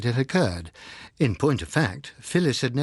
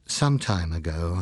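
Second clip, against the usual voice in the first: reassuring; 6 semitones lower, slower than usual. A narrator's reading. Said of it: "I reassured her".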